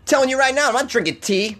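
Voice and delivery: high-pitched bad British accent; mock British accent. Podcaster refusing tea from UK listener, mock British accent. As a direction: protest in a badly faked Brit voice.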